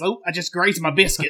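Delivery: imitated campy Southern accent; Zach Galifianakis. Co-host quotes his daughter's favourite movie line, Southern accent. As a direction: lightly mimic a Southern movie character. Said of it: "he does it basically in the entire movie".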